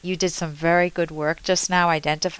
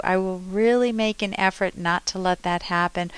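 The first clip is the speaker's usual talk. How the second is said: caring apology. Shown as a demonstration. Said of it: "if I go a different route".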